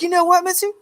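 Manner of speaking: high fed-up woman's voice; imitating an indignant friend. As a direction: mimic her cousin's wife, worked up. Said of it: "she's like".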